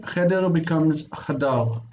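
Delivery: cheder with a full vowel, chadar with the first vowel reduced; slow contrast of cheder and chadar; cheder to chadar, slowly. Shown as a demonstration. Teacher showing the student a reduced vowel, slow and clear. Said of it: "this is near, and this is distant reduced".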